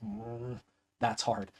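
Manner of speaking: ordinary talk, nothing marked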